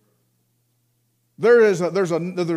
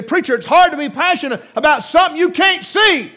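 lightly voiced objector, higher and louder; mock objector; 10 semitones higher, 7 dB louder than usual. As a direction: protest like a doubting listener. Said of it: "You say".

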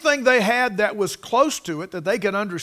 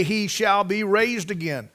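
firm stress on "raised again"; emphasis on RAISED AGAIN. Real, not acted. Preacher reading prophecy to congregation, emphasizing "raised again". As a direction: read it out firmly, landing on "raised again". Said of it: "Notice the emphasis".

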